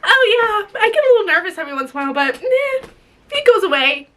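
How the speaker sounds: a hint of a dismissive father, rattled off fast; lightly mocked careless dad voice; mocking father. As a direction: brush it off like it's nothing, mocking him. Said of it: "I have to hear you talk about".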